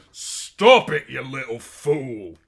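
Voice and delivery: loud, high furious yell; angry shout. A narrator's reading. Captor shouting at struggling girl, furious shout. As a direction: bellow at her to stop. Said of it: "he shouted".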